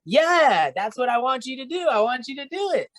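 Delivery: mock insistent answer. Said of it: "retelling his own reply".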